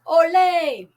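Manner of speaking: high, loud shout of Ole. Shown as a demonstration. Teacher models the shout for the class, loud and high. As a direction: belt it out like a stadium cheer.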